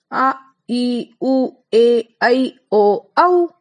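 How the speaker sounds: आ ई उ ए ऐ ओ औ each held long; drawn-out long vowels. Shown as a demonstration. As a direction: stretch every vowel long and clear. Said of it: "आपने देखा ना". (दीर्घ स्वर खींचकर)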